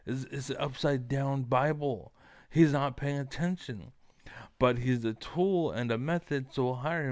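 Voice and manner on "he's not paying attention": loud stage whisper; whispered aside. Real, not acted. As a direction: whisper it like a secret. Aside about Trump.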